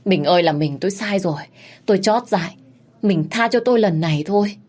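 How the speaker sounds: fast, rising desperate begging on his knees; husband begging his wife, pleading and rising. Acted. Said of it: "quỳ xuống chân của vợ van xin".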